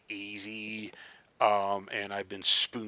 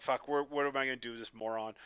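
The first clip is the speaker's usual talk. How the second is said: annoyed muttering; faster than usual. Retold or imitated. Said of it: "very annoyed pause and sigh".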